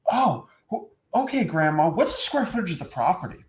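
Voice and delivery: hammed-up sales questioning, pitch jumping up; mock a buyer reading a script; scripted salesman. Buyer interrogates his grandma about selling, mock salesy. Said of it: "you're not gonna talk to your grandma like that".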